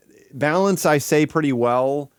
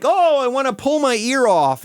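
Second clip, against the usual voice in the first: mock yell; 10 semitones higher, 3 dB louder than usual. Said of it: "then you're like".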